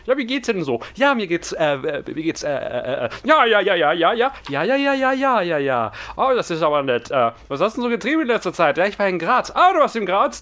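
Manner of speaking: high, hammed-up character chatter; silly high voice. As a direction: play a goofy squeaky character. Two voices interview comedy.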